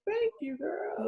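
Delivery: soft breathy whisper; whispered thanks. Real, not acted. Breathy aside after mock boast.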